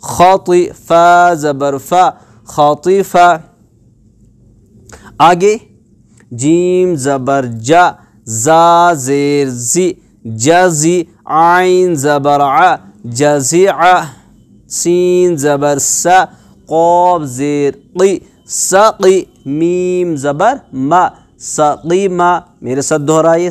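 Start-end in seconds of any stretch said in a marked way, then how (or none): 0.0-3.3 measured chant with drawn-out letter names; teacher leading a syllable drill; spelling drill recitation. Shown as a demonstration. 6.3-22.3 measured chant with drawn-out letter names; teacher leading a syllable drill; spelling drill recitation. Shown as a demonstration.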